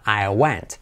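"went" with the E opened toward A. Shown as a demonstration. Teacher confirming the vowel, "went" with open E. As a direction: say "went" nearly as "want". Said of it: "una E abierta".

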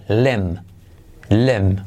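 "lem" with short E, silent B; limb as lem. Shown as a demonstration. Teacher models limb for learners, I as E. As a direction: say lem low, ending on M. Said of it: "se pronuncia con I como E y la B no se pronuncia".

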